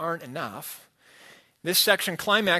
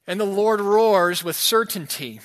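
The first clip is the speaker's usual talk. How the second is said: proclaimed; 2 semitones higher, 5 dB louder than usual. Acted. Preacher proclaims God's roaring judgment.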